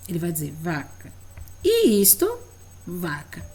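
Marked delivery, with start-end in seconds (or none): 0.6-1.1 resposta de aluno. Retold or imitated. 1.6-2.3 pergunta de professora. Shown as a demonstration. Professora demonstra pergunta à criança. 2.9-3.5 resposta de aluno. Retold or imitated.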